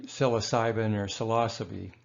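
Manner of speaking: psilocybin as sill-uh-SIGH-bin, psilocybe as suh-LAH-suh-bee. Shown as a demonstration. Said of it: "we usually say".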